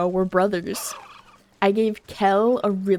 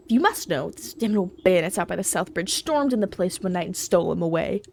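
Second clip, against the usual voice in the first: grumbling ox farmer. Acted. Voices the ox farmer.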